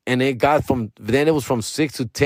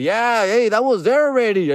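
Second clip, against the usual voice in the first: high, sing-song innocent act; mock innocent; 9 semitones higher than usual. To the clerk, faking innocence in a high, innocent voice. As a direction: play it casual, nothing to hide. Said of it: "I did the".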